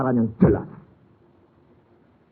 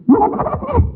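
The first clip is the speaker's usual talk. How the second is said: high, loud mocking wife voice; 5 dB louder, much faster than usual. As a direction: squeal it like a fussing wife. Wife's retort voiced in story. (istri menjawab suami dengan suara tinggi mengejek)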